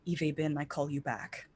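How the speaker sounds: soft, hushed words of a spell; whispered incantation. Acted. Player's character calling Calum back to life, whispering. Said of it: "she whispers".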